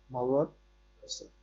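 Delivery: মগৎসয় drawn out very slowly, syllable by syllable, with a rise at the end. Shown as a demonstration. Teacher slowly spells out মগৎসয় for the student to follow, very slow. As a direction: stretch মগৎসয় out slowly so every sound is clear. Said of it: "মগ যোগ অতসয়".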